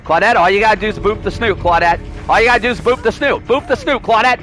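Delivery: high, sing-song coaxing; coaxing plea. Acted. Streamer coaxing a survivor to boop his snoot, high and sing-song. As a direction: wheedle the survivor into booping.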